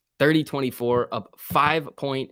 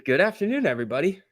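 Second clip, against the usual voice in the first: cheery greeting; 5 semitones higher, faster than usual. Real, not acted. Greets the whole chat.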